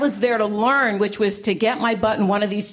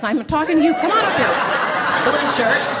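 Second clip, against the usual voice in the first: higher, laughing, coaxing him up; laughing call-out; 7 semitones higher than usual. Real, not acted. Calling a man in a blue shirt to come up, laughing. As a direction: tease the shy volunteer onstage.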